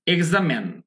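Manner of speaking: এক্সামেন with last syllable "men"; stress-led "eg-za-men", short final vowel; American pronunciation. Shown as a demonstration. Teacher showing learners American pronunciation, "men" ending. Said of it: "এর উচ্চারণ হবে".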